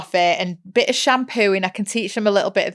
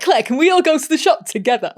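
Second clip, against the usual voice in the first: put-on higher, sing-song teen asking; pleading teenagers; 7 semitones higher, 4 dB louder than usual. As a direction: ask sweetly like an eager kid. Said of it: "they're like".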